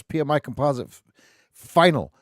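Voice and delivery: ordinary talk, nothing marked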